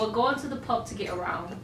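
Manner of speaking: put-on English accent for a pub line; amateur English accent; attempted English accent. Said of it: "You sound Australian".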